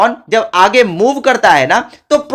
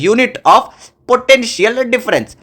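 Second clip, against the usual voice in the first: slow dictation; much slower than usual. Shown as a demonstration. Dictating the unit heading.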